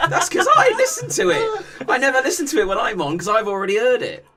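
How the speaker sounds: high, laughing through the words. Real, not acted. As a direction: giggle while you explain. Laughing while explaining.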